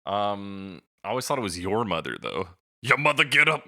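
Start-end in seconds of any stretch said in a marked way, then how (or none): 2.8-3.6 louder and higher, hammed-up mock shout of the line; mock lyric shout. Podcaster hams up the misheard lyric to cohost, mock shout. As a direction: belt the misheard lyric like a joke.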